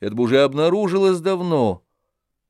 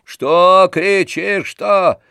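loud, high, slow yelling insults; shouting; 8 semitones higher, 4 dB louder, much slower than usual. A narrator's reading. Tarantyev yells back at Oblomov, high and furious. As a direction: yell it so the whole street hears. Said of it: "кричал Тарантьев".

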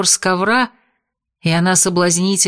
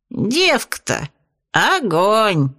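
восхищённо; 2 semitones higher, much slower than usual. Acted. Бес восхищён девушкой.

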